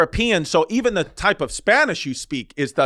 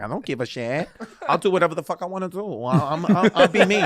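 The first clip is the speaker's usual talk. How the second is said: laughing quote. Retold or imitated. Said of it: "And she was like".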